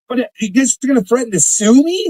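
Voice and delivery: pushing back hard, voice climbing; fired up. Real, not acted. Ranting at the chat about the lawsuit threat, fired up. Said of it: "I'm fired up again".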